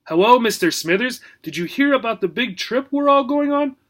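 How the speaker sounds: high eager gerbil voice; excited little rodent. Acted. Gerbil Obie speaks.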